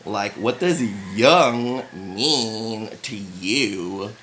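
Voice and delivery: mock professional. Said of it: "academia was like".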